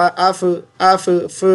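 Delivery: अफ़ with a wrong f; wrong फ in अफ़लह; wrong reading. Shown as a demonstration. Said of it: "no".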